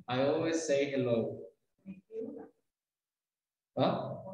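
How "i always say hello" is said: always and say sharing one S; linked S. Shown as a demonstration. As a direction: slide from always into say without a break. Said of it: "La misma S con la que termina esta palabra, comienza esta".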